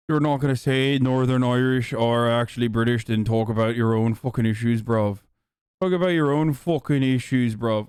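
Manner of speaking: put-on Irish accent. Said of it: "Go cry to the authorities that I'm doing an Irish, Irish voice".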